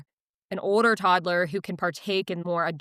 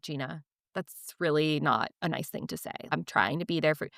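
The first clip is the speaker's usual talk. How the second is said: lower, calm imitation of a husband; calm retelling; 4 semitones lower, 4 dB quieter than usual. Husband answers anxious wife, calmly. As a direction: keep it low and even, gently reproving. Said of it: "he was so calm about it".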